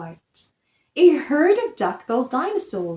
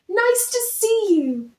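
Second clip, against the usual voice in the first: much higher welcoming hoot; friendly hoot; 9 semitones higher than usual. A narrator's reading. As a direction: greet him with a hoot. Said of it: "And they hooted".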